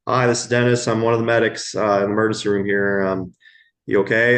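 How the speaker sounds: retold announcing yourself after knocking; calling through a door.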